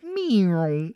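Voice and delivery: drawn-out cartoon "meow" noise; imitated gunshot-hand noise. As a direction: mimic a malfunctioning gadget going off. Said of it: "gets his hand shot, and it's like".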